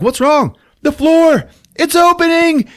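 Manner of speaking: high, loud squealing panic; mock panic. Heroes panicking as the floor opens, high and loud. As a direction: squeal in cartoon alarm.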